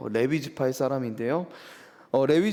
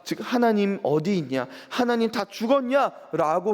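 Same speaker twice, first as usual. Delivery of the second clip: higher, indignant retold grumbling at God; a hint of scornful grumbling from God's own people; mocking complaint; 6 semitones higher than usual. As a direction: voice the doubters' bitter jeer, lightly acted. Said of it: "계속 조롱했다는 거예요".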